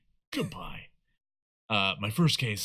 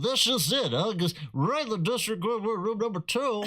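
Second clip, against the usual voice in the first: breaking news anchor; 8 semitones higher than usual. Pretend. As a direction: announce it like a newscaster. Newscaster bit on the date card.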